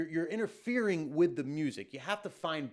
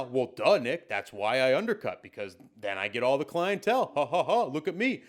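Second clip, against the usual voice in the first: mock undercutter; 4 semitones lower, 4 dB louder than usual. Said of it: "you might be saying right now".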